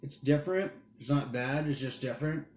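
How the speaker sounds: talking through a mouthful; chewing while talking; mouth full. Real, not acted. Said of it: "Sorry about eating with my mouth full".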